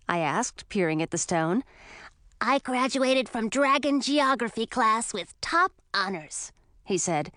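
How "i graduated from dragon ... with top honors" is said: put-on slow, proud boyish dragon; a lightly voiced proud young dragon. A narrator's reading. Young dragon tells Emma about his honors, proud. Ralph explains his award.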